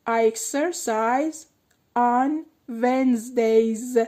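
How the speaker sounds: Wednesdays very slow, final s stressed. Shown as a demonstration. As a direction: drag it out, land on the s of Wednesdays. (کشیدن Wednesdays با تأکید روی س آخر)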